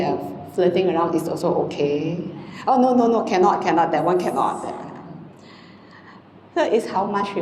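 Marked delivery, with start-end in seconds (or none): 2.7-4.7 hammed-up shock at the idea; mock horrified refusal. Monk mimics rule-benders refusing worse sins, mock alarm. Mock reaction to murder, infidelity.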